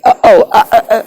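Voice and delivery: sudden high stammering mock clerk; flustered clerk. Clerk caught out by his question, high flustered stammer. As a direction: squeak out the clerk's caught-out hesitation.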